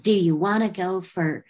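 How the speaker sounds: put-on light Southern accent; a hint of Southern accent in an imitated invitation; accidental Southern accent. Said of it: "I don't know why I'm doing a Southern accent".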